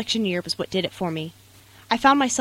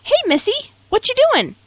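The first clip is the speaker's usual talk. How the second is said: said sweetly; 8 dB louder than usual. Retold or imitated. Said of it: "he said sweetly".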